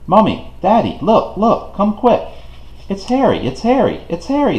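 put-on high, excited children calling; children call their parents, thrilled and high-pitched; excited shouting. A narrator's reading. Children spot Harry, shouting excitedly to parents. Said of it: "they began shouting".

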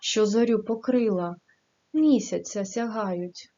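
an even, measured reading of verse; poem recitation. Acted. Teacher reciting a poem to the class, in a gentle reading voice.

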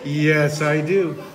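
put-on loud, doting baby-talk with smooches; kissy fish. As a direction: gush love and kisses, sliding downward. Voices the fish blowing kisses.

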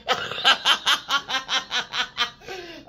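high bursting laugh; real delighted laughter at her own story. Real, not acted. Laughing to her viewers about the angels.

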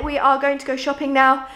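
breathless from rushing about; winded, talking between breaths. Real, not acted. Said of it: "oh God, I'm so out of breath".

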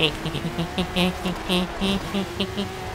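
high, drawn-out imitation snicker; mock giggle. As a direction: titter on and on like a gloating rival. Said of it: "Look at me, like".

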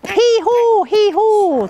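loud, high hee-haw; high, blaring donkey call; donkey bray. A narrator's reading. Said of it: "the donkeys bray".

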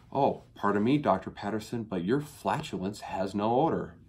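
hammed-up fawning politeness; put-on, swooping deference; mock reverence. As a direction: flatter the doctor with exaggerated courtesy. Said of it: "treated with such reverence".

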